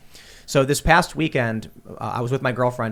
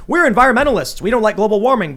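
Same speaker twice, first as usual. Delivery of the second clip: mocking; 6 semitones higher, 6 dB louder than usual. Mocking Democrats' voice.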